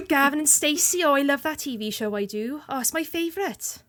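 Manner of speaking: a light Welsh accent, chatty. Shown as a demonstration. Showing friends she can put on her Welsh accent, light lilt. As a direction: gush about Gavin and Stacey in a Welsh accent. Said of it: "'Cause I can put the accent on".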